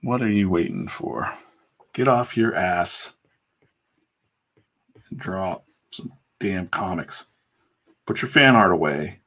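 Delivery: slow, emphatic pep talk; fired up. Real, not acted. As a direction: urge them on, stretching the words. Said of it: "I get all fired up".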